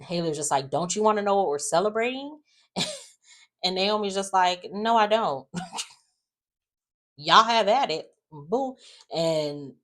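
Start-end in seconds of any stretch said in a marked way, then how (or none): 0.7-2.4 taunting. Retold or imitated. Haley taunting Naomi in recap. 4.7-8.8 dismissive. Retold or imitated. Naomi brushing Haley off.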